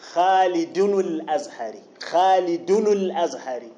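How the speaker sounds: "خالد الأزهري" joined as "Khalidunu-l-Azhari"; vowelled tanween. Shown as a demonstration. Teacher showing vowelled tanween, "خالد الأزهري" linked as "Khalidunu-l-Azhari". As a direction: give the n after "خالد" a u into "الأزهري". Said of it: "حرك التنوين هنا لالتقاء الساكنين".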